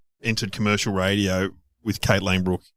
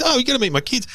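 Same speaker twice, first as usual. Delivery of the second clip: mock Peter Reith; faster than usual. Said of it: "He goes".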